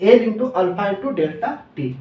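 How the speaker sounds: formula spelled out slowly, word by word; slow dictation. Shown as a demonstration. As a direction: dictate it slowly so students can write. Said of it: "delta L equals to". (धीरे-धीरे लिखवाते हुए)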